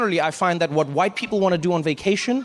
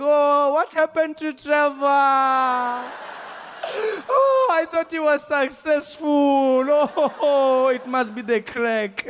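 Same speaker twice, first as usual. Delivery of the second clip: high, slow, wailing grandmother; grandmother's lament; 7 semitones higher, much slower than usual. Retold or imitated. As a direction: mourn like a heartbroken old grandma. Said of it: "She'd be like".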